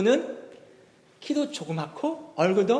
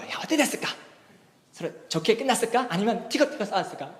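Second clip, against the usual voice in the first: curious wondering; 3 semitones higher than usual. Retold or imitated. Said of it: "너무 궁금한 거예요".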